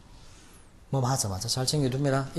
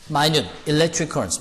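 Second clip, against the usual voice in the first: slow read; much slower than usual. Shown as a demonstration. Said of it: "이게 무슨 말입니까?".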